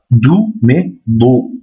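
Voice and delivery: "dou" said plainly, then "do" slow and heavy with an emphatic d. Shown as a demonstration. Teacher demonstrating slowly: plain "dou", emphatic "do". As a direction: stretch out "dou, mais do", the second one thick. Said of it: "c'est le del emphatique".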